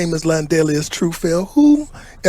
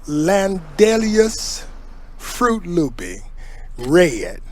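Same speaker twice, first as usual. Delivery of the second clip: slow announcing; much slower than usual. Acted. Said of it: "market and bottle my wine called".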